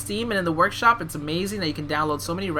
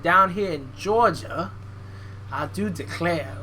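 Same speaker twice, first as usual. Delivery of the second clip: badly faked Southern gentility; bad Southern accent. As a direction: drag it out in a fake Georgia accent. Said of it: "make fun of my bad accents".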